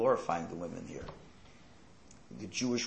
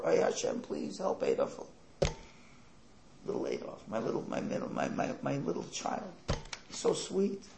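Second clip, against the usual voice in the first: mock weeping mother; 4 semitones higher, 3 dB quieter than usual. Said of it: "crying and crying over her son".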